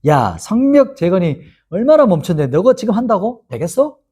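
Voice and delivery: a touch of derision, acting out the doubters; mild mock jeering. Opponents mocking the wall builders, mildly jeering. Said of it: "에이, 막 이렇게 조롱해요".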